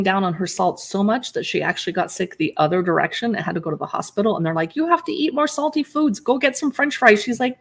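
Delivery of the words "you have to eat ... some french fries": higher-pitched mock insistence; imitated urging. Doctors urging boyfriend's mother to eat salt, imitated urging. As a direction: lightly act out someone pressing advice.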